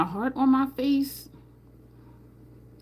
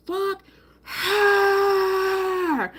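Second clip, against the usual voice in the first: mock blunt insult; 10 semitones higher than usual. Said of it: "He was like".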